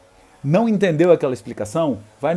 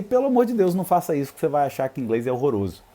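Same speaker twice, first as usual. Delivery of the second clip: mock alarmed teacher; faster than usual.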